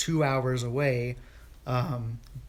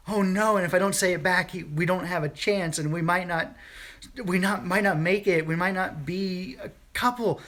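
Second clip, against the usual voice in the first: nervous panic; 5 semitones higher than usual. Retold or imitated. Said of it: "nervous wreck state".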